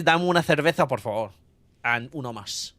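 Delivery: Spanish phrases in a Spanish accent. Real, not acted. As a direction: order casually with Spanish pronunciation. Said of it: "With the Spanish accent, too".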